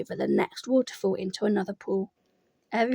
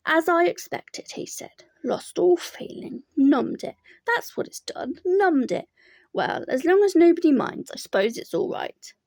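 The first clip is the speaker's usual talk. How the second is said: higher, gloomy complaining donkey; Eeyore voice; 6 semitones higher, 3 dB louder than usual. A narrator's reading. Eeyore complains his tail is cold, gloomy voice. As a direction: moan about it like a glum donkey.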